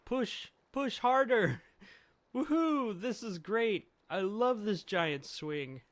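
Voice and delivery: loud, high whooping delight; gleeful shouting. Acted. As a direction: cheer wildly from a flying swing. Voices Luffy playing on swing.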